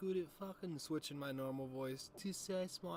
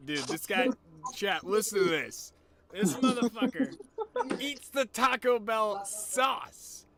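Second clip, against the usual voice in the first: incredulous excitement; 8 semitones higher, 13 dB louder than usual. Real, not acted. Telling chat about sauce-eating friend.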